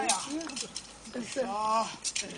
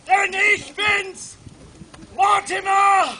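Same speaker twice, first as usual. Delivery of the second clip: villain reveal shout; 5 dB louder, slower than usual. Acted.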